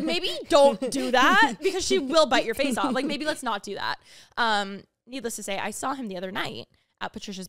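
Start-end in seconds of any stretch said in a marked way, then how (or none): 0.0-4.0 louder, alarmed caution; urgent warning. Retold or imitated. Warning Jordan at Rosie's eye level, an urgent louder caution. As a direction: warn him off quickly. Warning guest near dog.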